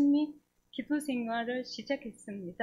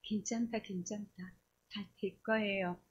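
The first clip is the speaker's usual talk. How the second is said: soft, lowered comforting voice; 5 dB quieter than usual. Retold or imitated. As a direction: gently reassure someone who is crying. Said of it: "마음으로 나를 위로해 주는 거예요". (나직이 달래며 위로하는 말투)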